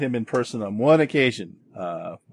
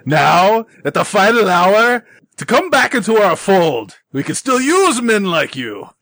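smooth villain voice; 10 semitones higher, 9 dB louder than usual. Acted. Villain tempts the hero to return.

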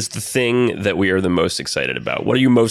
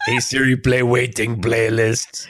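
Cookie Monster voice. Retold or imitated. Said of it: "my Cookie Monster impression".

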